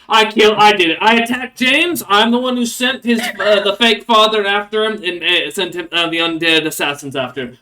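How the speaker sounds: loud, high desperate confession; frantic, high-pitched blurted confession; dwarf piping up. Acted. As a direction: shout your guilt to the guards. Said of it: "you hear the dwarf pipe up and go".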